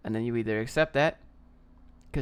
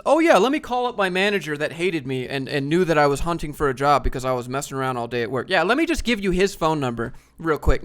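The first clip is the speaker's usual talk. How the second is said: sarcastic mock reply; 7 dB louder than usual. Mocking the naive honest reply.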